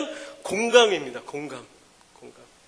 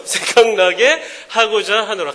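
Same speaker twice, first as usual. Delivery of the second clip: laughing scripture read; 5 dB louder, slower than usual. Shown as a demonstration. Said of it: "성경에도 이런 말씀이 있습니다".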